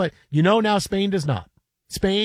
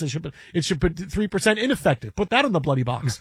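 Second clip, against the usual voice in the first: Hugh Grant impression; 5 semitones lower than usual. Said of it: "the Hugh Grant line from Nine Months".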